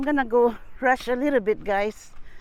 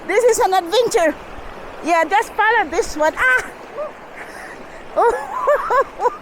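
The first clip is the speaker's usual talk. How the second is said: in ice cold water; 10 semitones higher than usual. Real, not acted. Crossing icy river barefoot.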